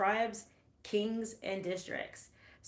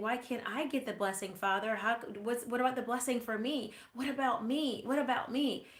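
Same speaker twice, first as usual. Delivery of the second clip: mock-tearful plea, pitch rising higher toward the end; pleading cry; 3 semitones higher than usual. Esau begging his father for a blessing, in a lightly acted tearful plea. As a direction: plead like a son left out of the blessing. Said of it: "Esau was crying".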